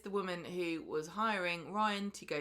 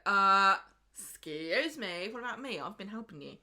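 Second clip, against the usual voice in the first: mock indignation; 7 dB louder than usual. Viewer objecting to Ryan praising only Daisy, mock indignant. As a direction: cut in, playfully affronted at being overlooked.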